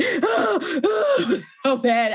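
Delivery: high, loud, drawn-out slow wail, hammed up; mock sobbing. Retelling crying at Demon Slayer to her husband, mock sobbing wail. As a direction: play-act your own tears, stretching each word.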